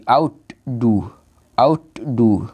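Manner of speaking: "আউটডু" split as out, do; two separate beats in "আউটডু"; parts said separately. Shown as a demonstration. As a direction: keep "আউট" and "ডু" apart. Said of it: "আউটটা আলাদা উচ্চারণ করতে হবে".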